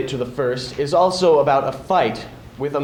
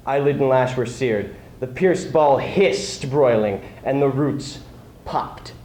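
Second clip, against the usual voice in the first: measured, dramatic recitation of Homer; epic poem reading. Acted. Reading the blinding of the Cyclops to an audience, dramatic recitation. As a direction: read it like an ancient epic, building the blow-by-blow.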